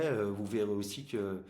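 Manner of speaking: talking around a plastic aligner; slightly impeded speech from braces. Real, not acted. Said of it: "j'ai un appareil dentaire".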